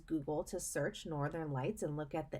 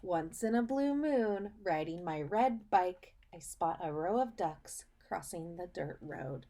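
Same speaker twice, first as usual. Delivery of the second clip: put-on reading to children. Teacher reading a picture book to her students, storybook voice. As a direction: read it like storytime for little kids.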